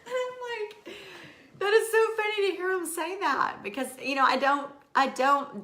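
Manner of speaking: high, laughing and near tears. Real, not acted. Laughing to viewers about husband's compliment. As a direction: laugh it out, overwhelmed. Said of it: "it just makes me start laughing".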